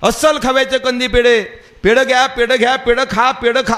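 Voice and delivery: lightly voiced street hawker calling out sweets. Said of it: "असं ओरडायचा".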